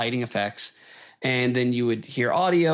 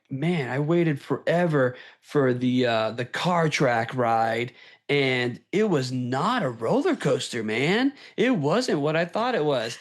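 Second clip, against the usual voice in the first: imitating a let-down rider, rising in pitch toward the end; mock a mildly griping park guest; disgruntled guy; slower than usual. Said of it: "so they were like".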